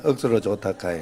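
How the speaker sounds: 억수로 좋다카이 said through a laugh and falling at the end; Gyeongsang dialect, laughing. Shown as a demonstration. Pastor says it along with the congregation, chuckling in Gyeongsang dialect. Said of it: "자, 시작".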